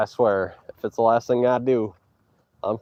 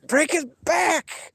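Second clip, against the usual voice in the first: high, slow drawn-out battle cry; wrestling war cry; much slower than usual. Retold or imitated. Streamer imagining his own battle cry mid-hold, high and slow. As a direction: stretch it out like a ring chant. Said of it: "And I'll be like".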